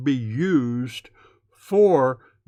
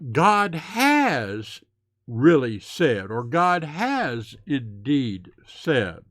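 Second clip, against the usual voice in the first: slow read-out; much slower than usual. Shown as a demonstration. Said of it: "we would probably read".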